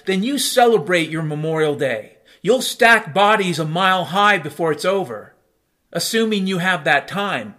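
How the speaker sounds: righteous fury at the listener; ranting loud against war; angry rant. Real, not acted.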